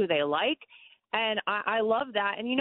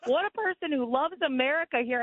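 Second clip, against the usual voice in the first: higher-pitched admiring gush; retold amazement; 4 semitones higher than usual. Guest recalls spotting the house photo while scrolling, retold amazement. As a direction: act out being wowed by a find. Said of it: "and I was like".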